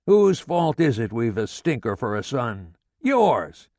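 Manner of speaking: father gloating at his wife about their son; exultant tirade. A narrator's reading. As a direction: crow over being proved right. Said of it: "He was exultant".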